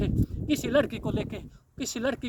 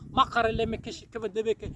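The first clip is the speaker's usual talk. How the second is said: speaking in tongues. Real, not acted. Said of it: "ये आत्मा में मैं बोल रहा हूँ".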